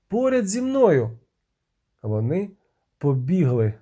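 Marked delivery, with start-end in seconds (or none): 0.1-1.1 urgent call. A narrator's reading. Sorceress calls Geralt close.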